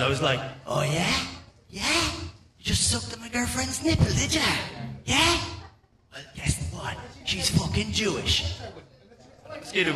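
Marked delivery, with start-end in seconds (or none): 0.7-5.4 high, rising, challenging questions; losing it. Acted. Man losing it at a mosquito, mock-furious comeback. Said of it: "I fucking lost it". 6.1-8.6 spiteful comeback. Acted. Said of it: "I fucking lost it".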